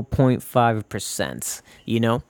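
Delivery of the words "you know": ordinary talk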